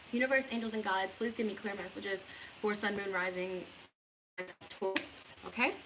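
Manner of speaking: talking around a lollipop; sucking a lollipop. Real, not acted. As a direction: lollipop in mouth. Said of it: "I have a lollipop".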